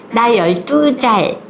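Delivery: put-on slow, lisping childish voice; baby talk. Mother playfully answering her daughter in slow baby talk. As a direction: talk with a short tongue like a little kid. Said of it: "혀 짧은 소리로".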